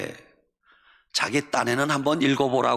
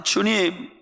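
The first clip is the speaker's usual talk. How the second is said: sulky complaint; 4 semitones higher than usual. Retold or imitated. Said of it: "볼멘 소리로 기도했어요".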